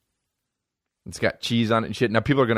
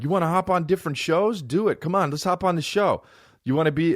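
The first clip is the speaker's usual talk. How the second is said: mock eager; 8 semitones higher than usual. Imitating comedians urging him on.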